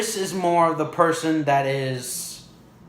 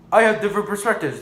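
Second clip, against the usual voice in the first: quick, high put-on friend voice; higher, rapid teasing imitation; Preston; 5 semitones higher, much faster than usual. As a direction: mimic a buddy in a hurried higher voice. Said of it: "my friend Preston".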